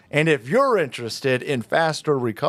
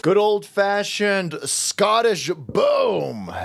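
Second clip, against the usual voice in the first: slow, hammed-up shouted boom; drawn-out mock war shout; mock battle cry; 5 semitones higher, much slower than usual. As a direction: bellow it like a highland warrior.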